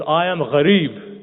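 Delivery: crying out. Acted. Starving stranger entering Medina, crying out slowly. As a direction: call it out at the top of your voice. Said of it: "he says on the top of his voice".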